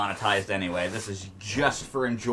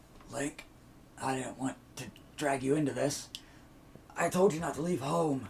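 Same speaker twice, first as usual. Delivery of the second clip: soft, pitched-up, dying character voice; 5 semitones higher, 6 dB quieter than usual. Running through the game, voicing the hero's uncle: dead uncle voice. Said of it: "I gotta get into my dead uncle voice".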